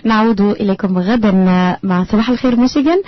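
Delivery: brisk, fast announcer read; quick radio host farewell; radio sign-off. Acted. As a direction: rattle off the show outro.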